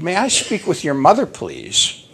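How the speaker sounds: lightly voiced high phone lady, dropping on the last word; quick, high imitated request; lady caller. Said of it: "the voice continued".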